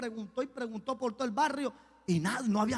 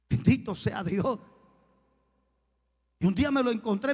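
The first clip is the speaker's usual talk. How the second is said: ordinary talk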